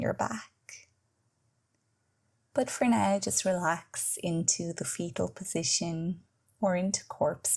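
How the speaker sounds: measured guided relaxation voice with long pauses; guided meditation. Acted. Yoga teacher leading listeners into Yoga Nidra, guided meditation. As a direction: guide the listener into rest, leaving space between phrases.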